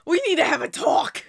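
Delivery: breathless, laughing half-whisper. Real, not acted. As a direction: gasp it out mid-laugh. Laughing, repeating the call-out.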